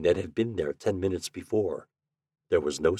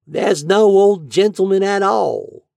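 high, loud, slow cool reply; 12 semitones higher, 8 dB louder than usual. A narrator's reading. Landlady coolly correcting the lodger. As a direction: answer coolly, unmoved. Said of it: "she answered coolly".

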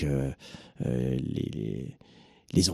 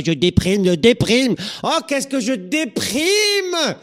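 much higher, louder whine, the last cry dragged out slow; mock moaner; 5 dB louder, slower than usual. Coach mocking pampered people who moan about depression, high whiny wail. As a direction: ham up a pampered moaner wailing about her blues. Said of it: "quand je pensais à nos cocottes".

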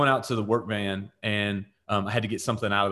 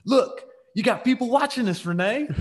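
much higher, louder, laughing mock voice; embarrassed boyfriend; 11 semitones higher, 4 dB louder than usual. Boyfriend noticing the onlooker, high laughing mock voice. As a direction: ham up the man hissing at Renee through a laugh. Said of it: "and he says".

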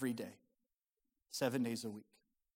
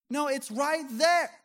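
insistent yelling; 11 semitones higher, 7 dB louder, slower than usual. Retold or imitated. Wife insists from another room.

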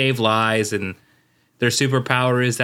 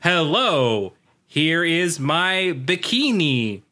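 stilted mock imitation of a badly faked Brazilian accent; bad fake accent; 2 semitones higher, slower than usual. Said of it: "He, he talks like".

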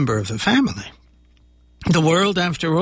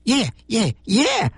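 monster voice; 6 semitones higher, slower than usual. Acted. Monster happy agreeing.

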